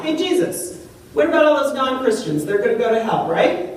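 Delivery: high, breezy, offhand "Hey, Jesus"; tossed-off, flippant asking; mock casual question. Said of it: "the question that Thomas asked Jesus is not".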